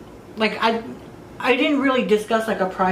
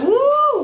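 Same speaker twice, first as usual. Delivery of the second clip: high, loud held woo; excited whoop; 5 dB louder than usual. Acted. Reacting to a gorgeous client, excited whoop. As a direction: whoop it high in mock swooning.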